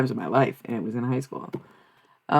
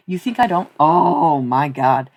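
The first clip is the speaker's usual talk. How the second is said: loud outraged rant; angry; 2 semitones higher, 7 dB louder, slower than usual. Real, not acted. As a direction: call them out, furious. Ranting at unwanted viewer.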